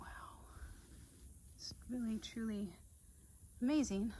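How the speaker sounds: soft hushed wonder; whispering. Real, not acted. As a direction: half-whisper in awe. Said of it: "I don't know why I'm whispering".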